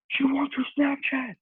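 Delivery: very high, drawn-out mock squeal; excited announcement. Friend phoning to say a girl is interested, excited squeal. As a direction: imitate a friend breaking huge news, slow and high. Retelling friend's big news by phone.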